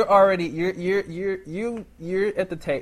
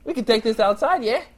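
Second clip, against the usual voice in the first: higher, blustering British-Australian challenge; absurd British accent; 5 semitones higher than usual. Acted. Waiter challenging customer to fisticuffs, in muddled British accent. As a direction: threaten a scrap in a hammed-up British accent. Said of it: "it was all over England and all over Australia".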